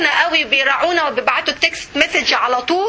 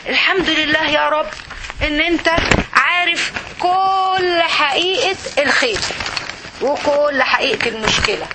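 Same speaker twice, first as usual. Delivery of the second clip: heartfelt prayer in sujood; sincere whispered-to-God confession; intimate prayer. Pretend. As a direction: pour out your fears to God. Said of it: "أقول".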